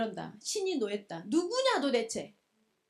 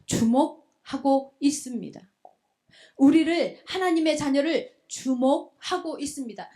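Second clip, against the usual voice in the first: forceful, raised sermon delivery; impassioned preacher proclaiming a blessing; emphatic preaching; 4 dB louder than usual. Real, not acted. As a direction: drive each phrase home to the congregation. Preacher drives home the message.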